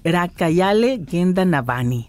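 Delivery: "Rakayale Genda Navani" sounded out slowly in Zapotec; careful Zapotec pronunciation. Shown as a demonstration. Host repeats after the midwife, slow careful "Rakayale Genda Navani" in Zapotec. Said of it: "en zapoteco".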